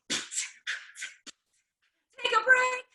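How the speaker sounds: high, loud line broken by laughter; laughing at herself. Retold or imitated. Beatboxer to herself, laughing while out of breath. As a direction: laugh through your own self-mocking line.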